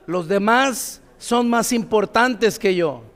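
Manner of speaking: "Los demás son más importantes que yo" said slowly, with weight on "demás"; with conviction. Shown as a demonstration. Pastor repeats the motto like he means it, with conviction. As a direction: say it like you truly believe it. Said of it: "así como que te la crees".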